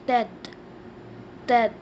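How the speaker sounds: "tête" as a short falling "tet"; teacher modelling "tête"; French pronunciation. Shown as a demonstration. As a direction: say "tête" the French way, one quick syllable. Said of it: "We say head in French".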